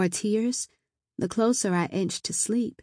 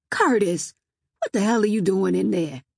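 scolding; 5 dB louder than usual. Acted. Cousin scolds him.

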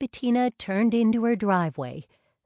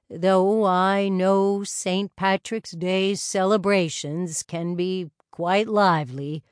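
put-on genial older husband; 7 dB louder than usual. Wilfred's voice in narration.

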